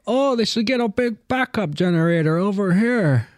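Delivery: high-pitched imitation of a Native American public speaker; mock Native American accent. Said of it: "Why the fuck are we doing this accent".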